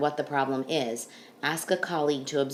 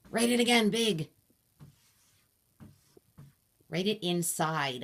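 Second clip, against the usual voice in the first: shouting directions. Real, not acted. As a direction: bark out the instructions. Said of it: "I'm gonna shout some directions at you".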